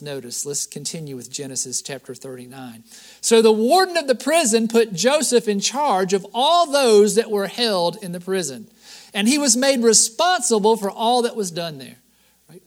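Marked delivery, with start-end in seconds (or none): 3.2-12.0 measured, projected Bible reading; scripture reading. Acted. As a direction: read the verse out to the congregation. Reads scripture aloud.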